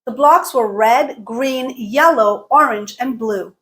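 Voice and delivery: colors lifted from RED to ORANGE, BLUE falling; rise-fall list intonation. Shown as a demonstration. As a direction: keep each color up, then drop on BLUE. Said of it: "Here is one more example".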